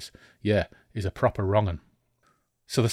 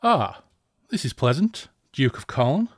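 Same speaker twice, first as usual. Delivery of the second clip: higher, louder mock-pleasant villain; evil gloating voice; 4 semitones higher, 5 dB louder than usual. Horseman gloats over the captured Hawkmoon, loud and higher. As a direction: savor the capture with malice. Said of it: "the deep, musical voice ... edged with evil and with malice".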